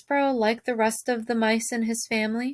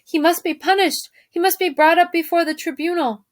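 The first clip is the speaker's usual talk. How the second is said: higher, louder furious father mouse; angry shouting; 7 semitones higher, 4 dB louder than usual. A narrator's reading. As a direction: bellow it in outrage. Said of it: "shouted Lester".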